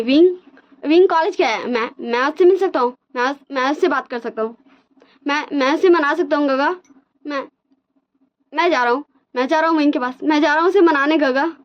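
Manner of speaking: high, hurried, panicky pleading; frantic worry. Retold or imitated. Wang ji rushing to tell big brother, high frantic pleading. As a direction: sound like everything is falling apart. Wang ji desperate to chase Wing.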